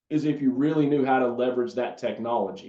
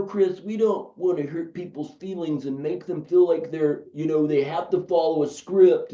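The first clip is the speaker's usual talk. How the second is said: mock whiny objection; 2 semitones higher than usual. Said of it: "my little aggravated, upset voice".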